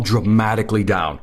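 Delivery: "dramatically" leaned on for emphasis; stress on dramatically. Real, not acted. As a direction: drive home the word "dramatically". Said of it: "I'm emphasizing the word dramatically down".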